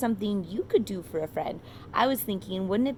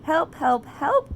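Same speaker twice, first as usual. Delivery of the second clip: louder, rising calls for help, last one much higher; cry for help; 7 semitones higher, 7 dB louder, slower than usual. Acted. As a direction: shout help like a stuck little truck. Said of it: "cried the little blue truck".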